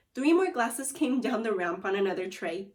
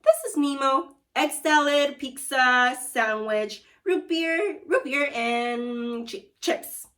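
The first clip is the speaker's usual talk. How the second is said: calling an order over the phone, louder and higher; 4 semitones higher, 6 dB louder, slower than usual. Acted. Caller Nemo phoning his lunch order in, loud. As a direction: bark the order down a bad line. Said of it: "said another voice".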